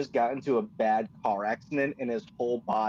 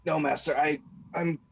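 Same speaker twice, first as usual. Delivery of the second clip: a hint of a brave hurt servant; 4 semitones higher than usual. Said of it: "he looks at Rei Jin and he says".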